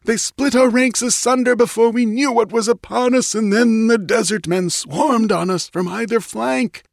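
high, frantic battle report; yelling. A narrator's reading. Wounded priest tells the queen of the rout, yelling. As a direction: keep it pitched high and desperate throughout. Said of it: "yelled the priest".

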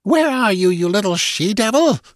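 high, venomous gasped curse; deadly fury. A narrator's reading. Wounded captor hunts her escaped prisoner, furious. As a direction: curse your hidden attacker in high-pitched rage. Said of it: "her fury was so concentrated and deadly".

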